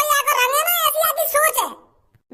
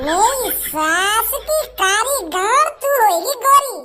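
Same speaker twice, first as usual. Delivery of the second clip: mocking taunt; much slower than usual. Mocking the dark-skinned girl.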